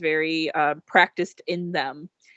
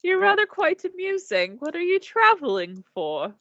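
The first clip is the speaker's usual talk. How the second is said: turtle man voice; 10 semitones higher than usual. Acted.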